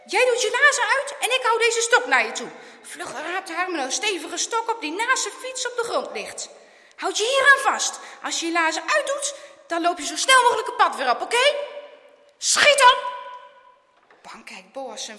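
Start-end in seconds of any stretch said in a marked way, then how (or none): 0.1-2.5 high, loud commanding; forceful, alarmed directing; urgent instructions. A narrator's reading. Friend urgently directs the rescue. 7.0-13.2 loud, high, pressing commands; forceful, hurried urging; urgent orders. A narrator's reading. Friend shouts rescue orders.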